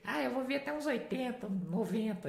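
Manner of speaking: high, soft mock-child voice; pupils answering. Pupils telling their teacher how long they'll live, high soft child imitation. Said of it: "Eles falavam assim".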